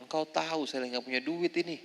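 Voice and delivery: soft, quiet grumble to Allah; a hint of a weary lament; mild complaint to God. Mother complaining to God over hospital costs, quiet grumble. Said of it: "mengeluh sama Allah".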